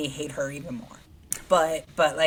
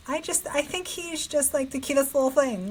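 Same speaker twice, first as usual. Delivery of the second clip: high-pitched, adoring gush; gushing fondness; 9 semitones higher than usual. Real, not acted. Co-host defending a favourite contestant, gushing fondly. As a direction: coo over someone adorable.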